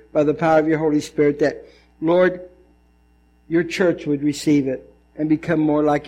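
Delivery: low-pitched, humble plea to God; earnest prayer. Real, not acted.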